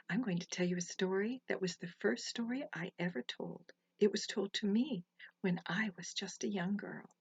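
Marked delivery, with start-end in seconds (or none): 1.5-7.1 whispered aside. Real, not acted. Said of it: "whispered aside".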